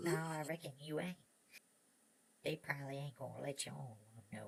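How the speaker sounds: put-on chatty old prospector to his horse. Miner talks to his horse.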